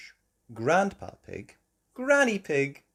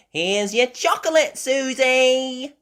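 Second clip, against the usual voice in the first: put-on high, loud child call; Peppa; 10 dB louder than usual. Peppa delivering to Susie, high child voice. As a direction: call it out, stretching the name.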